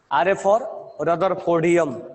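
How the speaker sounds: "R for Rutherfordium" said slowly; slow dictation. Shown as a demonstration. Teacher dictating slowly to students. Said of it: "और R A for".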